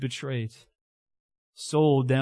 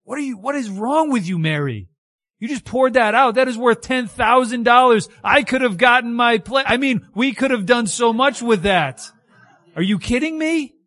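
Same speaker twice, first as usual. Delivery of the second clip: much higher and louder, an exasperated tirade; indignant Judas; 9 semitones higher, 8 dB louder than usual. Retold or imitated. Judas scolding Mary for the poured-out perfume, indignant and loud. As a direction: blow up at her over the wasted perfume. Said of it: "He was indignant".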